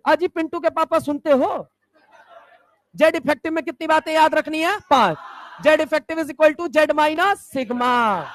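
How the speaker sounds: lightly voiced aunty calling out, then reciting; half-mock shout across the rooftop; neighbour aunty call. Student on rooftop calling to neighbour, mock aunty voice. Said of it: "रात को बारह बजे छत पे".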